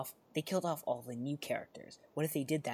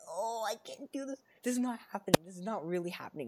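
overwhelmed fan disbelief; 7 semitones higher than usual. Retold or imitated. Fan reacting to Red Skull on screen, high disbelieving gush. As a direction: gush like a fan who cannot cope. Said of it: "I was like".

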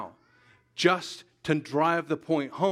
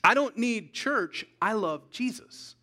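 dismissive churchgoer; 6 semitones higher than usual. Retold or imitated. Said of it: "here's another way that attitude talks".

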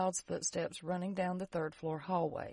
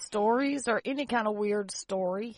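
slurred from pain meds; loopy, medicated speech; high; 2 semitones higher, 3 dB louder than usual. Real, not acted. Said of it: "you sound so".

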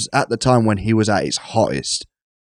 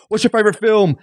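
casual ask; 10 semitones higher than usual. Retold or imitated. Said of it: "I was doing that whole thing".

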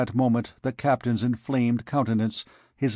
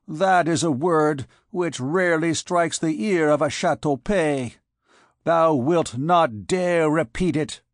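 raised, indignant challenge; wrathful captain; 4 semitones higher, 4 dB louder than usual. A narrator's reading. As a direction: challenge him with offended pride, higher. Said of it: "in the presence of this wrath".

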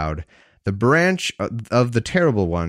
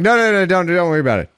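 1 mock God; 8 semitones higher, 5 dB louder, much faster than usual. God voiced in a joke dialogue.

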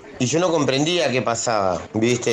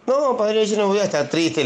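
retold child's reply, pitched much higher; voz de niño; 7 semitones higher than usual. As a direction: answer like a small boy reassuring his godfather. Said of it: "le digo yo". (voz de nene, bastante más aguda)

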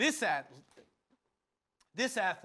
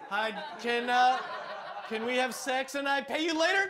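second try at john line; 4 semitones higher, 4 dB louder than usual. Pretend. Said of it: "Just one more time".

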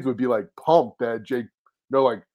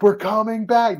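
mock announcement; 9 semitones higher, 3 dB louder, slower than usual. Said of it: "They announced".

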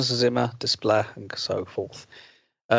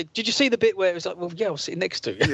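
put-on kid voice; 7 semitones higher, faster than usual. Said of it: "And they say".

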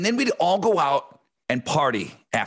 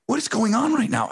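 incredulous wife; 8 semitones higher than usual. Retold or imitated. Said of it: "my wife sitting there going".

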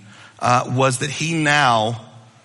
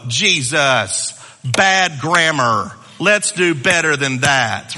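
mock-scolding Jesus, louder and slowed; a prissy grammar pedant wagging a finger; mock correcting; 2 semitones higher, 4 dB louder, slower than usual. Pedant scolding Jesus over grammar, mock fussy. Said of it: "you don't go".

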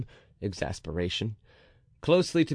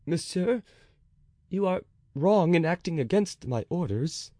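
1 simple reply; 7 semitones higher than usual. A narrator's reading. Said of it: "replied with simplicity".

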